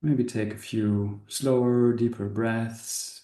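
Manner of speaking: unhurried meditation guide with long pauses; calm, spacious guiding voice; guided meditation. Acted. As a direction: ease the listeners into relaxing, leaving space between phrases. Leads a meditation.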